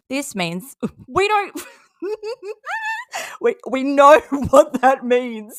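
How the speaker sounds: laughing mockingly. Real, not acted. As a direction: laugh through the words. Laughing at Katie's message.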